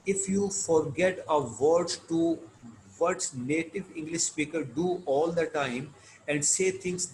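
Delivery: reading aloud. Shown as a demonstration. Teacher reads English text slowly.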